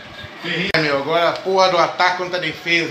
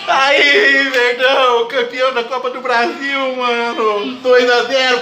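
cup-winning cheer; 5 semitones higher, slower than usual. Real, not acted. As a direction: celebrate the title at full voice. Team wins the cup. (grito de campeão)

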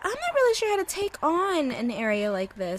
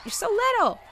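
put-on baby talk; 10 semitones higher, 4 dB louder than usual. Cooing at a small mob.

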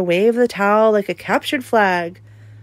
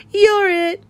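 put-on a little boy's gleeful cry, much higher and louder; triumphant; 11 semitones higher, 4 dB louder than usual. A narrator's reading. Jacob tagging Christopher, triumphant. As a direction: crow it with glee.

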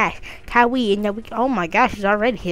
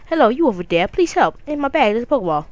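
mock plea; 3 semitones higher, 3 dB louder, faster than usual. Professor Birch calling for help.

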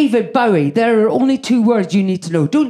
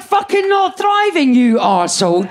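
mocking retort; 7 semitones higher, 4 dB louder than usual. Mother mocks her daughter's complaint, high and loud. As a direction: throw her words back at her, mocking.

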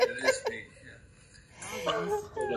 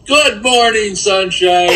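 cheery greeting; 4 semitones higher, 15 dB louder, slower than usual. Acted. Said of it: "give her your greeting".

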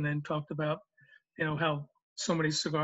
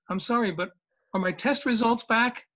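"are my test results back?" higher and louder, breaking into a laugh; laughing punchline; 5 semitones higher, 5 dB louder than usual. Retold or imitated. Rich delivering the joke's punchline to the hosts, laughing. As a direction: land the punchline while cracking up.

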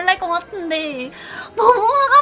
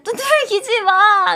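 slow, loud tearful cry of don't pat me; crying mock plea; 3 semitones higher, 5 dB louder, slower than usual. 친구들에게 등 두들기지 말라고 울며 하는 말, sobbing. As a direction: wail it slowly like a sobbing kid. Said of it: "이러면서 울면서".

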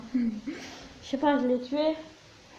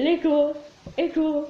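echo effect. Pretend. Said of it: "Je fais l'Echo".

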